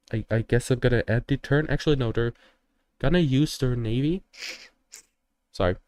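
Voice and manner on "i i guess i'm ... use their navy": nose whistling while talking. Real, not acted. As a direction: air whistles through the nose. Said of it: "Sorry, that's my nose".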